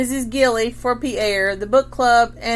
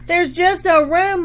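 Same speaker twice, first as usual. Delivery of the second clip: raised, higher voice, a mild shout; mom's exasperated raised voice; 7 semitones higher, 4 dB louder than usual. A narrator's reading. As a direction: Mom calls out over the chaos, higher and louder. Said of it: "Mom shouted".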